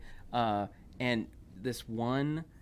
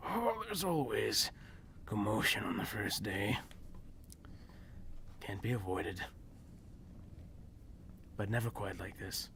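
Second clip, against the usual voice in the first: lightly voiced old teacher; old man voice; 3 dB quieter than usual. GM voices older human man.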